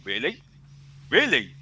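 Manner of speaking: low, soft disbelieving imitation; a legend's quiet scoff; imitating Bill Nicholson. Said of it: "Bill Nicholson must be looking at that and saying".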